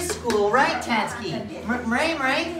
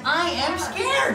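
SCARED swung high, slowly stretched; slow, rising sing-song model of SCARED; 4 semitones higher, slower than usual. Shown as a demonstration. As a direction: draw out SCARED with a swooping pitch. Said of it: "I'm gonna go up and down".

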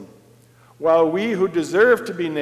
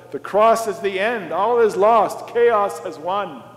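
louder and higher, slowing on chaos has won; climactic proclamation; 6 semitones higher, 6 dB louder than usual. Acted. Preacher to congregation, building to a loud despairing climax. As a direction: preach it to the breaking point.

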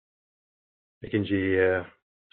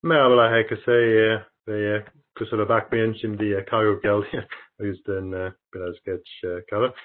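halting Turkish with foreign accent; foreigner broken turkish. Real, not acted. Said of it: "yani Türkçem çok, e, iyi değil".

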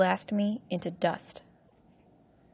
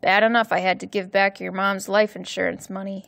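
growled; 3 dB louder than usual. Acted. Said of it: "he growled".

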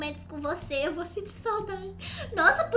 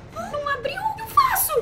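panicked; 13 semitones higher, 6 dB louder than usual. Real, not acted. Panicked question.

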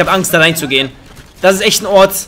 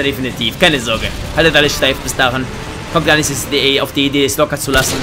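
1 mock deep voice; 4 semitones lower, 4 dB quieter than usual. Mock deep advice to teammates.

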